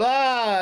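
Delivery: imitating a magician's ta-da sound; long open "ah". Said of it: "And then he goes".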